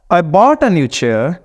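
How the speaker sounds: BOUGHT and NEW CHAIR stressed and stretched, "a" kept light; slow demo, leaning on "bought" and "new chair"; stress on content words. Shown as a demonstration. Teacher reads the example to show sentence stress, stressed BOUGHT, NEW CHAIR. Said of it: "अब मैं इसको पढ़ता हूँ".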